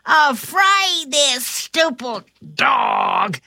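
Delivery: slow, drawn-out burglar's cry. Acted. Burglar fending off a dog, crying out. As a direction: cry out slowly as a villain. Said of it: "cried the shorter burglar".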